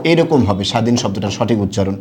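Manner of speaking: স্বাধীন said as shadhin, no b sound; স্বাধীন demonstrated as shadhin; correct pronunciation. Shown as a demonstration. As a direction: give স্বাধীন as shadhin, the ব silent. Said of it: "এটার সঠিক উচ্চারণ কি হবে".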